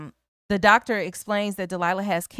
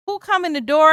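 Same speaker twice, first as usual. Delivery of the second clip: excited; 8 semitones higher, 7 dB louder than usual. Real, not acted. Dramatic entrance in story.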